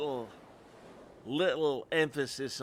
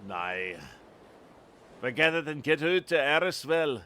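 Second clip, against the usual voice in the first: shaky attempt at a Scottish accent. Lookout sending visitors away, Scottish accent. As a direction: dismiss them in put-on Scottish. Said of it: "if my Scottish accent is bad".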